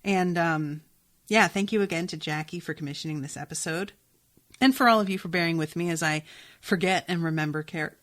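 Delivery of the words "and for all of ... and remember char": talking through the hiccups. Real, not acted. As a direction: cut off by a hiccup. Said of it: "got the hiccups all of a sudden".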